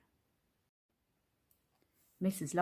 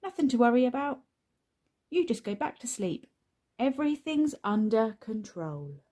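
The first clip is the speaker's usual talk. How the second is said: put-on much higher, louder little boy voice; eager small boy; 5 semitones higher, 5 dB louder than usual. A narrator's reading. Luke backing up his brother, high eager boy. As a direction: chime in keenly. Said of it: "he agreed".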